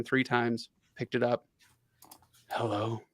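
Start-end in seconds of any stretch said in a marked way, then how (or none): 2.5-3.0 soft, sleepy hello; tired voice. Retold or imitated. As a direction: sound just woken up. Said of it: "in my best, uh, tired voice".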